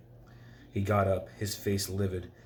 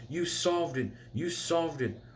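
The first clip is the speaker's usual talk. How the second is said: high excited cry, much higher; mild mock scream; 9 semitones higher, slower than usual. Hermione running toward Harry, excited high cry. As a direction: squeal it out in delight.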